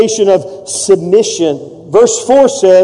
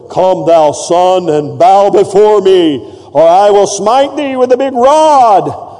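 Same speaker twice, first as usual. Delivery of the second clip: slow, solemn King James thunder; lightly hammed-up stern old prophet; mock biblical prophet; slower than usual. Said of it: "my God doesn't talk to me this way".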